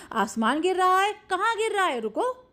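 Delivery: a hint of a roaring lion, pitch up; mock-roar the question at the animals; lightly voiced angry lion; lion's roar. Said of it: "शेर ने दहाड़ कर कहा".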